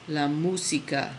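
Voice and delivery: "música" with the push on "mú"; teacher demo of "música" stressed on the first syllable; stress on the accent. Shown as a demonstration. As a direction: lean on "mú" in La música. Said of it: "You always push on that where you see, um, the accented character".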